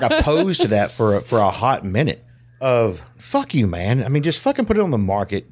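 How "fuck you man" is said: mock defiant. His old view of the FDA.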